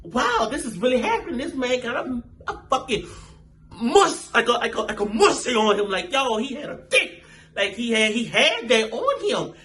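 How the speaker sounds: high, giggly disbelief; excited astonishment, punching the key words; amazed reaction. Retold or imitated. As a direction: retell it wowed, pitch up and laughing. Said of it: "I was just so like".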